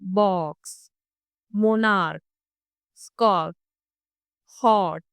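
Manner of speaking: short rounded o vowel; short rounded vowel in each word; example words. Shown as a demonstration. Teacher modelling the short back vowel for students. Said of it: "इसमें words आते हैं".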